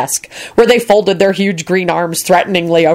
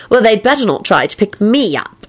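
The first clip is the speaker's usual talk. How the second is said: higher, mildly affronted protest; indignant; 4 semitones higher than usual. A narrator's reading. Elizabeth objecting to being picked up, indignant. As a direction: bristle a little at the very idea. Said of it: "Elizabeth said indignantly".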